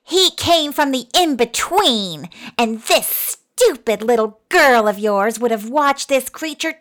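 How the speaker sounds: little man's loud, crackly, furious rant; high-pitched crackly yell. A narrator's reading. Little man berates mother over the dog, crackly yelling. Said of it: "yelled in his high-pitched, crackly voice".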